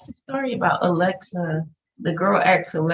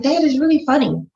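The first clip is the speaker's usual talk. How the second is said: put-on raised, louder kid plea; pleading kid; 8 semitones higher, 7 dB louder than usual. Son to his dad about the cartoon, higher kid plea. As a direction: push it like a kid begging dad. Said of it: "And I was like".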